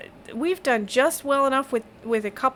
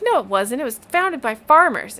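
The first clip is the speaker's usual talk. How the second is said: contradicting; 3 semitones higher, 5 dB louder than usual. Acted. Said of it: "the guy next door goes".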